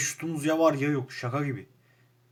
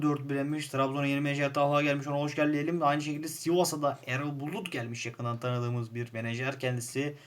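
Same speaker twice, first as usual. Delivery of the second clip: results rundown. Acted. Reading league results.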